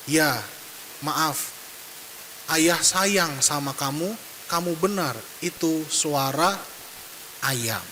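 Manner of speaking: put-on slow, soft apology to a crying child; father hugging his son, slow and tender. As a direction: kneel and gently reassure your son. Father kneels, hugs crying child.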